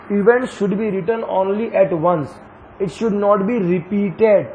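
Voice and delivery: very slow, word by word recital; slow dictation. Shown as a demonstration. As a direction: spell out the rule slowly. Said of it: "आपको याद होना चाहिए". (नियम बहुत धीरे लिखवाना)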